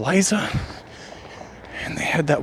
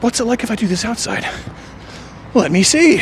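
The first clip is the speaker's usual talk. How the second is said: put-on curious little kid; 7 semitones higher than usual. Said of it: "I was like".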